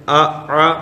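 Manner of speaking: first آ clean, second آ squeezed in the throat; hamza versus ain. Shown as a demonstration. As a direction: glottal آ then pharyngeal Arabic ع آ. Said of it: "جبکہ اس میں فرق ہے".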